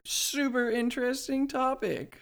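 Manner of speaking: sarcastic. Acted. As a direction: oversell it with a wink. Mock hype for podcast's next topic.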